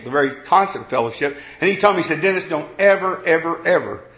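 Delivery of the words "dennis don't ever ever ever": each ever leaned on, pleading warning; stressed repeated ever. Retold or imitated. Friend warning the preacher, ever stressed each time. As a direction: lean hard on every ever. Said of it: "and that's how I said it".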